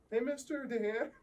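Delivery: put-on high, slow kid voice; little kid voice. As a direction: play a small child greeting. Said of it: "Some little kid ever came up to me".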